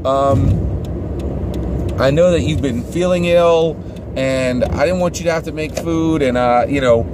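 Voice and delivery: overly gracious lady at the door; church lady voice. Retold or imitated. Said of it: "and she says".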